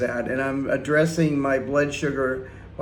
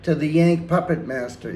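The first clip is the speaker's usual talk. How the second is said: excited shout-out; 3 semitones higher, 3 dB louder than usual. Real, not acted. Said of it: "I wanna shout out to".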